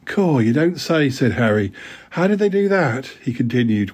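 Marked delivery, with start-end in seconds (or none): 0.1-1.1 put-on a slow, higher dim-boy voice; slow gawping schoolboy. Harry believing the joke, slow and gawping. Harry character, read story. 2.1-3.1 put-on a boy's eager question pitched higher; higher schoolboy voice. Dick asking Tom what was stolen, higher boy voice. Harry character, read story.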